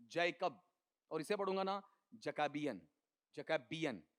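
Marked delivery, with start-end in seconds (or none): 0.1-0.6 जैकब with full, strong जै; stress on first syllable. Shown as a demonstration. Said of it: "इसको पढ़ूंगा ना अकेले को". 2.2-2.8 जकाबियन with weak ज, weight toward बि; stress moved to later syllable. Shown as a demonstration. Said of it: "बै पे stress". 3.4-4.0 जकाबियन with weak ज, weight toward बि; stress moved to later syllable. Shown as a demonstration. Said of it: "बै पे stress".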